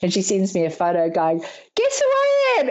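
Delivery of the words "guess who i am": much higher, teasing friend; playful tease. Retold or imitated. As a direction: tease her with a riddle.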